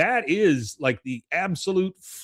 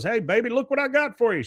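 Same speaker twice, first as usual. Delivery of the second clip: high, puffed-up hick showing off a catfish; proud redneck husband; 12 semitones higher, faster than usual. Retold or imitated. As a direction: crow it to the wife way up high. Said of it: "He goes".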